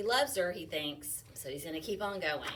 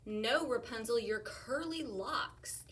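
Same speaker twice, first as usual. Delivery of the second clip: prince calling up; 4 semitones higher, slower than usual. Acted. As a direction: call up to her in the tower. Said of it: "So he tried again".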